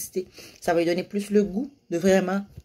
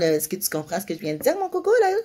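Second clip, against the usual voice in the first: gentle check-in; faster than usual. Shown as a demonstration. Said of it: "comme tu demandes".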